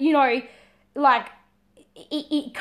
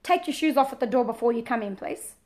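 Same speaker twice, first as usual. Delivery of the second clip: calm request; 2 semitones lower than usual. Shown as a demonstration. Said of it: "so it could be".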